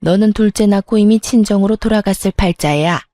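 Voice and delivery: lightly voiced, disapproving mother-in-law; a hint of a reproachful family elder; scolding mother-in-law. Mother-in-law blames daughter-in-law for bearing no son, lightly voiced scolding.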